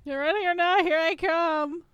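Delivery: playfully creepy, high and loud. Pretend. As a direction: call it out like a creepy seeker. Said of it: "that sounds creepy".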